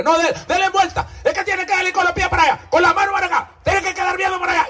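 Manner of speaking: high, fast, bossy mock relatives; fussy relatives. Pastor mimicking relatives fussing over the coffin, high and quick. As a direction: boss the undertaker around. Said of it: "ya dicen la familia".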